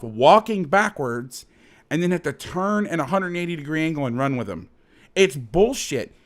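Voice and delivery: exasperated, emphatic rant; heated and fed up; getting pissed. Real, not acted. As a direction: drive each rhetorical question home, worked up. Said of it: "Sorry, I'm getting pissed".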